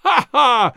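a scornful bragging laugh; burst out laughing. Acted. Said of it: "Pereira burst out laughing".

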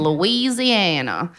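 drawn-out Southern drawl; light mock Deep South accent. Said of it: "we do the accent".

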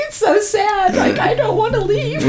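put-on high little-boy whimper through laughter; mock sad child. Mom retells son's fear of the moon, high mock-sad kid voice with laughter. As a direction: laugh while voicing a sad small boy.

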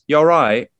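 chirpy mock British greeting; faux British accent. Greeting her British classmates on set in a put-on British accent. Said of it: "I went up to my classmates who are all British and I'm like".

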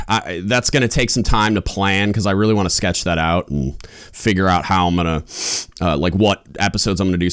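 stuffy nose, sniffing between words; congested. Real, not acted. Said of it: "I'm a little congested right now".

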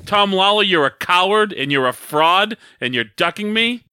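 mock wrestling promo accusation; play-heated challenge to a rival; hot and heavy. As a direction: call out a rival, name first and punched. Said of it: "you're hot and you're heavy".

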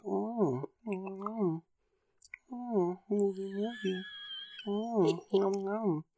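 high, soft slurping moans; dopey Chris Klein. Retold or imitated. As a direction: moan it softly and high like licking a treat. Klein licking the storyboard.

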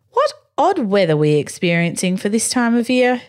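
a light hint of a posh gentleman; aristocratic voice. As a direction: play the lord at tea, lightly. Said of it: "he said in an aristocratic voice".

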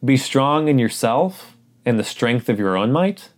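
the wrong version, asked as a question with rising tune on "might"; mock wrong reading. Shown as a demonstration. Pastor offering the wrong reading to test the congregation, questioning. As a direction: read "Be strong in yourself" as the mistaken version, doubtful. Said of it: "No, listen again".

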